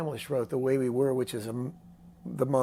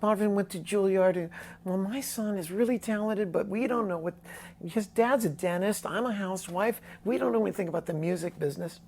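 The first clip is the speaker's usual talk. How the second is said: a hint of a proud, worried mom, higher; pleading mom, half-acted; lightly voiced mother; 7 semitones higher than usual. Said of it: "she goes".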